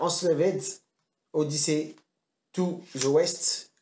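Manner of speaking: slow, showy attempt at English; game title in careful French-tinged English; English accent. Shown as a demonstration. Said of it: "t'as vu l'accent anglais".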